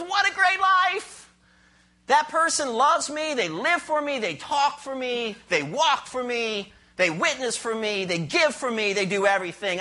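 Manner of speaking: beaming as God, proud of a faithful life; God's delighted voice. Retold or imitated. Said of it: "and God goes".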